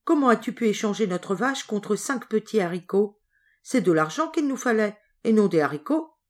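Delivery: a read-aloud scold, lightly heated; angry mother. Acted. Mother scolding Jack over the beans, mildly angry. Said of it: "sa mère se mit en colère".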